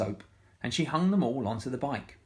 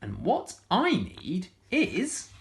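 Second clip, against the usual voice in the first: much higher, loud gleeful cry building up; joyful whoopee; 9 dB louder, much slower than usual. Acted. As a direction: shout for joy at the end.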